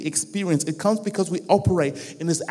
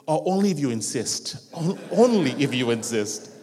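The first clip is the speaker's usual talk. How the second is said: coy acceptance; 3 semitones lower, 3 dB louder than usual. Acted. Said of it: "We reject it. That's our first response".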